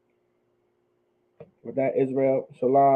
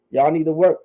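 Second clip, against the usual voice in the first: ordinary talk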